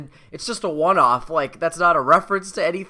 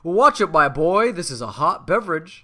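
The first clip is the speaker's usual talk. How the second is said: dad voice; 3 dB louder than usual. Retold or imitated. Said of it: "catches himself".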